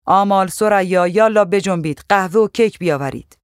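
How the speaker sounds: put-on loud, bossy summons to the servant girls; hurry-up shout across the house; calling out orders. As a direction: call them like a strict housekeeper. Mabrouka orders the girls around.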